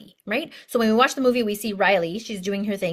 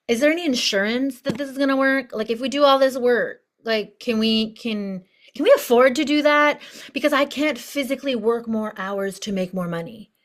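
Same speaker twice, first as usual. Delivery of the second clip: worked-up physical body; 2 semitones higher than usual. Acted. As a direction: fret mildly over money and effort. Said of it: "physical bodies now starts to get worked up".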